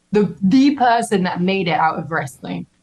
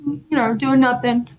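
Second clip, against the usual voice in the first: feigned super chill; 4 semitones higher than usual. Retold or imitated. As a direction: play it cool while secretly thrilled. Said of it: "trying to be, like, super chill".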